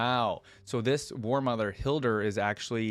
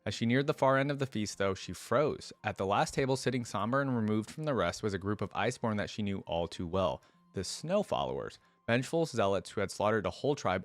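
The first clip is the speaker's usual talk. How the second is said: steady storybook reading voice; narrating a fantasy tale to viewers; story narration. A narrator's reading. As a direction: read the lore aloud like an audiobook. Reads story aloud between comments.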